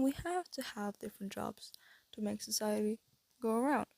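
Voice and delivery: airy, breathy voice; breathy, half-whispered. Real, not acted. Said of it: "getting breathy".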